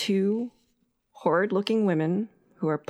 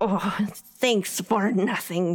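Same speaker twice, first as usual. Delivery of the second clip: put-on croaky, grumbling old hag witch voice. Narrator voicing a hag after an elf disappears from its cage, croaking hag voice. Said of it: "she croaks".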